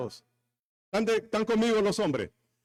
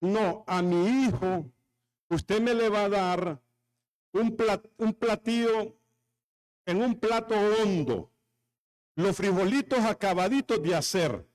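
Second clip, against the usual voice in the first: mother-in-law demanding. Pretend. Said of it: "va a venir la suegra y decir".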